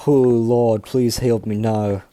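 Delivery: put-on a first, admittedly wrong try at the TV show's accent, drawn out; botched TV show accent. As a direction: fumble a TV show character's accent on a plea to the lord. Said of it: "I did that accent completely wrong".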